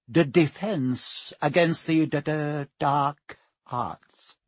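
slow, stuttering, reluctant; nervous mutter. Acted. Quirrell naming his subject, nervous stutter. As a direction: stammer over dark. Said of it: "muttered Professor Quirrell".

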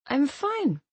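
slurred, words curling together; drunk slurring. Acted. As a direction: slur it like too much vodka. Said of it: "My voice was slurring".

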